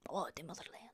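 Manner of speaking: very soft, low murmur; half-whispered mock devotion; hushed reverence. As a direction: sigh it out in mock-patriotic longing. Wistful mock-patriotic echo.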